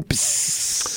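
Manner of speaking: unvoiced hiss through teeth; a long, rising tire-leak hiss; leaking air hiss. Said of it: "Are you leaking air over there?".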